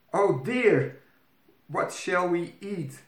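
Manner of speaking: put-on high, dismayed young princess; fretful princess at a loss; worried princess. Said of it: "wondered Princess Iris".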